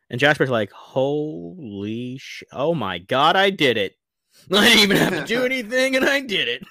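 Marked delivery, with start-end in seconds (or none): 0.7-6.0 loud, high disbelief at his own success; playing thrilled astonishment, loud and high; amazed triumph. 6.0-6.6 high, loud, laughing delight; acting giddy with a surprise win; amazed triumph. Jasper amazed at his own success.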